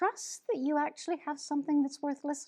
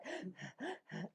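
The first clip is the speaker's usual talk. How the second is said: gasp; 3 semitones lower, 17 dB quieter than usual. Shown as a demonstration. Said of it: "You're doing this kind of like".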